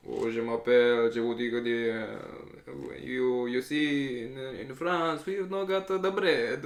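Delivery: slow, improvised French accent; hesitant mock French. Shown as a demonstration. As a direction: grope along slowly in a put-on French accent. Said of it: "try the French accent".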